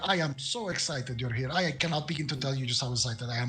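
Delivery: lightly voiced, over-polite lich gushing on; gushing apologetic lich. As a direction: apologise profusely, tripping over your own excitement. Lich gushes apologies and excitement.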